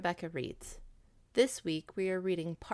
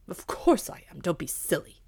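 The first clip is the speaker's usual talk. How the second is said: loud, gruff bark; barking dog; 5 dB louder than usual. Acted. Dog eagerly agrees to help the cat, loud bark. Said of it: "barked the dog".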